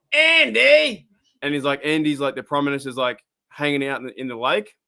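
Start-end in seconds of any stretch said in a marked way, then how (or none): 0.1-1.1 high, loud call across a hill; shouted call. Retold or imitated. Simpsons Australian calls to the Prime Minister, loud shout. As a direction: yell the name from far off. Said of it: "the guy runs over the hill and goes".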